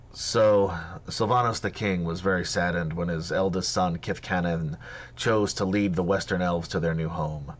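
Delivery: measured storytelling lore voice; epic fantasy narrator. Acted. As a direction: tell the old tale gravely.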